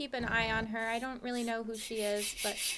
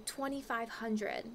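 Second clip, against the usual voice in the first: stunned; 2 semitones lower, 7 dB quieter, slower than usual. Real, not acted. Repeats the price in shock.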